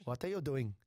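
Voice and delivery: lightly imitated Indian accent. Shop girl questions the boy at checkout, light Indian accent. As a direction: put on a hint of an Indian accent. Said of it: "I'm gonna have to do the accent".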